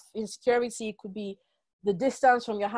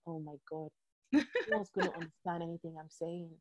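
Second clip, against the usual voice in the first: anxious inner voice; 4 semitones lower, 9 dB quieter than usual. Retold or imitated. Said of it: "I was thinking".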